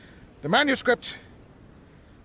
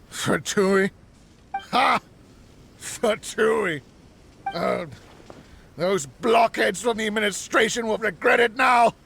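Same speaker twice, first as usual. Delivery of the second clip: gloating shout. Acted. Mad scientist gloating.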